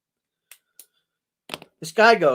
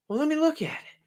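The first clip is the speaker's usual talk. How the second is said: mock clerk voice; 13 semitones higher than usual. Clerk voiced in a retold story.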